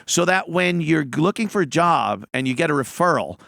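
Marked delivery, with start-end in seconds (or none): 0.1-2.2 high, loud exasperated questions; heated rant. Real, not acted. Telling the host, ranting about two weeks notice. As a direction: rant at the absurdity of it.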